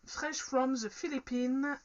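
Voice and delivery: slow, careful English read with a French accent; clumsy English accent. Real, not acted. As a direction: spell out the English slowly, French accent showing. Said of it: "je sais, mon accent est pourri".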